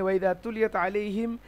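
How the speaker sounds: measured Arabic Quranic recitation. Retold or imitated. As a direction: recite the verse with drawn vowels. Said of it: "আল্লাহ বলছেন কোরআনে".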